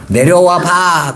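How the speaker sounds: mildly mocking, drawn-out dare; imitating a scoffer, very slow; retold taunt. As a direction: stretch the words out as a light jeer. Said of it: "예수를 조롱하면서".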